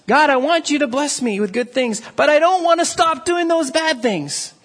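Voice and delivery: mock bargaining prayer. Churchgoer bargaining with God in a lightly mocking tone. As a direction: pray like you want it both ways. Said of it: "Who doesn't".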